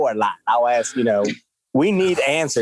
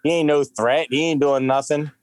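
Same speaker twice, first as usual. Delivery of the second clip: half-sung mock Black voice, slow; lightly voiced Black voice. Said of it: "it's the worst black voice ever".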